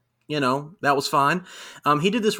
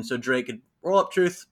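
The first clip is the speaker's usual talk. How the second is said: ordinary talk, nothing marked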